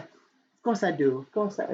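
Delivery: slow, lightly faked girl voice; half-hearted girl impression. Girl answers her friend's compliment, half-hearted girl impression. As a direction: accept the compliment as a badly imitated girl. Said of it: "I can't do a girl impression".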